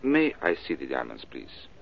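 hammed-up French accent, posing as a Frenchman. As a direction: play a smooth Frenchman with a stage French accent. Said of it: "Gonna try out your French accent?".

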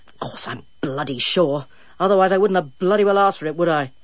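slurring, irritable snap; a tipsy bloody-minded retort; drunk and irritable. Acted. Drunk dentist snaps at barman.

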